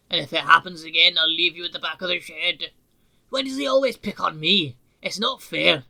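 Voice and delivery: loud, aggrieved protest; indignant complaining. Acted. Duncan complaining about the controller, loud and aggrieved. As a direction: whine about the unfairness.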